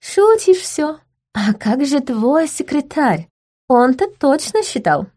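high, slow playful tease; teasing lady. A narrator's reading. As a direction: needle him sweetly. Gloria teasing the prince.

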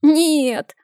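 put-on high thin child's whimper; a boy on the edge of tears. A narrator's reading. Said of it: "захныкал он тонким голоском".

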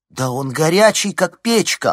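shocked at how hot he is; alarmed exclamation; gasping alarm. A narrator's reading. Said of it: "ахнула она".

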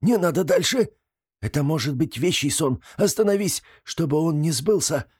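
high, frightened begging; high superstitious plea; pleading. Acted. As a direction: beg him to stop, scared. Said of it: "взмолился суеверный Сват".

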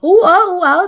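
imitated helpless stammering. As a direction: imitate someone frozen, unable to get words out. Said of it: "tự nhiên người bạn cứng hết". (giả tiếng ú ớ, cứng họng)

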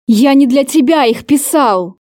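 a mildly voiced angry hiss through the teeth; hissed in anger. Angry lover confronting her over the read letters, hissed lightly. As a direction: hold the fury in, let it leak out as a hiss. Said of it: "С шипением выдохнул Кейт".

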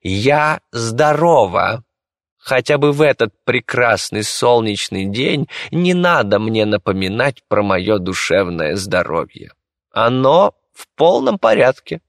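high, lightly irritated noblewoman; irritated lady. Acted. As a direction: brush him off, haughty. Госпожа раздражённо отмахивается. (раздражённая госпожа)

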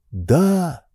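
usual speaking voice

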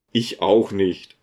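slow, low, gently amused; smiling. A narrator's reading. Provost agrees about the deacon, low and smiling. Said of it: "meinte der Propst lächelnd".

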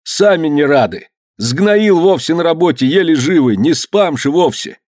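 high, stretched pleading; crying out. A narrator's reading. Serfs begging master for mercy, high plaintive cries. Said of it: "кричали холопы".

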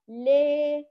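لا bent to "lee"; tilted alif. Shown as a demonstration. Teacher contrasts two sounds, this one inclined toward e. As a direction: hold لا with the long a leaning to e. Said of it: "لاحظ الفرق بين الصوتان".

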